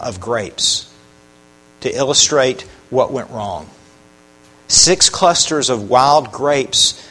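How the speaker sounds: ordinary delivery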